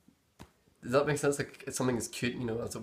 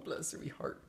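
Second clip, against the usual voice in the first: cutesy guess; 7 semitones higher, 9 dB quieter than usual. Retold or imitated. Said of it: "It's like, "Oh".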